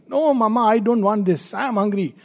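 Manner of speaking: a lightly voiced child refusing mother; protesting child. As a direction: plead lightly like a hungry child.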